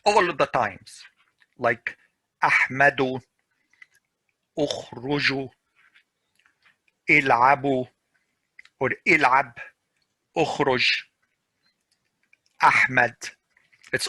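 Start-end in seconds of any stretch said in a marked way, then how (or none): 2.4-13.2 glottal start on ahmadu, ukhruju, il'abu; hamza sounded. Shown as a demonstration. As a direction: attack each word's opening hamza. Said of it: "always pronounced".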